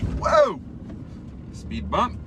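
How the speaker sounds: jolted by a bump; sudden surprised exclamation; startled whoa. Real, not acted. Car hits speed bump.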